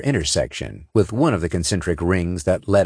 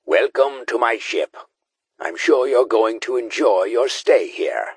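smug; 4 semitones higher than usual. A narrator's reading. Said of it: "The voice in their helmets was smug".

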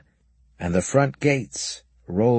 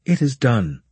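triumphant; 4 semitones higher, 3 dB louder than usual. Acted. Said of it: "turning back to us triumphantly".

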